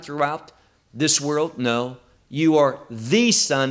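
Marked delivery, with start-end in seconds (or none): 2.3-3.7 "the" stressed as "thee" in "the Son"; single out "the" as the one and only. Retold or imitated. Preacher correcting "a son", stress on "the". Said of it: "the implication is the one and only".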